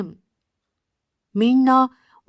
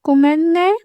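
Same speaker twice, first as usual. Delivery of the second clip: cute casual apology; 6 semitones higher, faster than usual. Shown as a demonstration. Casual apology demo, high.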